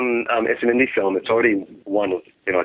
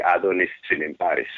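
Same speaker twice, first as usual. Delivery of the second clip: "Adonis Simperis" in a light Greek accent, as his father would say it; a hint of a Greek accent on "Simperis"; 2 semitones lower than usual. Shown as a demonstration. Guest says his name in Greek on the host's request. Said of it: "say your name in a sexy Greek accent".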